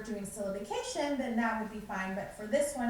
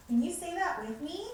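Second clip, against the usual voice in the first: cheerful teacher voice; 3 semitones higher, 4 dB louder than usual. Shown as a demonstration. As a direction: call the kids in like a kindergarten teacher. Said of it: "So you would say".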